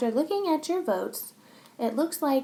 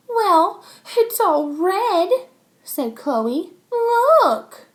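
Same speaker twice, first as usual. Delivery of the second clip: put-on much higher, louder pleading girl; whiny complaint; 9 semitones higher, 8 dB louder, much slower than usual. Chloe waves her finger at Max, whiny and high. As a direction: push the finger at him.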